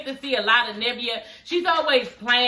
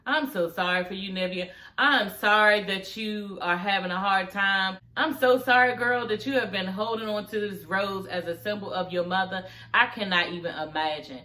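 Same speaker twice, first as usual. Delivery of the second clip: sincere sympathy; 2 semitones lower than usual. Real, not acted. Sincere condolence addressed to grieving singer.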